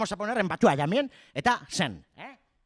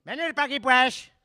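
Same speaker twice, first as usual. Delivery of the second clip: louder call; 4 semitones higher, 5 dB louder than usual. Real, not acted. Calling someone over again.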